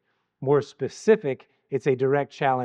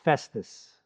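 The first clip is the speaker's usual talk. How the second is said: deferential address; 2 semitones higher, slower than usual. Shown as a demonstration. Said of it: "Paul calls him".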